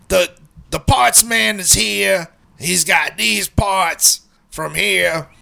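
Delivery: slow, drawn-out mock yell; imitated yelling. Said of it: "I can hear her yelling".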